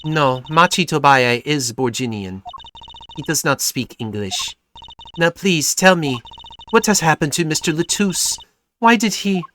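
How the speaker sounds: put-on lightly European-accented singer; hint of a European accent; vague European accent. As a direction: speak carefully in a loose European accent. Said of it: "vaguely European accent".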